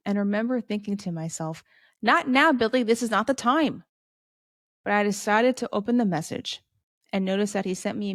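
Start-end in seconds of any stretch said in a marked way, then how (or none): 2.0-3.8 mildly exasperated inner voice, pitched up; not in the mood. Retold or imitated. Remembered thought as friend messages at a bad moment, mildly exasperated. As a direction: brush a friend off, a touch irritated. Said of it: "definitely not in the mood".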